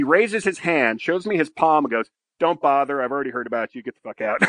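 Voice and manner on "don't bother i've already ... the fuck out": gruff commander. Retold or imitated. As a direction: dismiss him like a weary boss. Commander's dismissal voiced.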